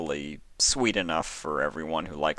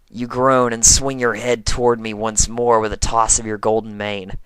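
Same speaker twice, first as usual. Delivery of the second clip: bright, raised cartoon voice held through the story; sporty pegasus telling a romance story; in-character tomboy pony voice; 6 semitones higher, 7 dB louder than usual. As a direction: stay in the high character voice the whole tale. Whole story told in character voice.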